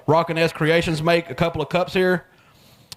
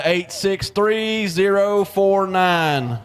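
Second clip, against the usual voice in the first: slow repeat; 2 semitones higher, much slower than usual. Real, not acted. Raffle number repeated slowly.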